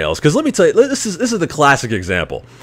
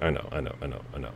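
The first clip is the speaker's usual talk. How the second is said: much softer, lower, resigned murmur; hushed conceding; 9 semitones lower, 21 dB quieter, much faster than usual. Retold or imitated. Boyfriend quietly admitting his girl is trouble, hushed. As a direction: concede it almost under your breath. Boyfriend's eyes saying I know.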